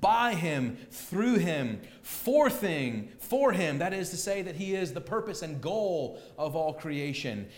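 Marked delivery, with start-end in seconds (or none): 0.0-3.8 BY, THROUGH, FOR each punched louder; emphatic prepositions. Shown as a demonstration. Preacher driving home Paul's emphatic case, stressed prepositions. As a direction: hit "by", "through" and "for" as separate beats. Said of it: "Notice the emphasis".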